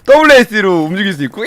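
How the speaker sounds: usual speaking voice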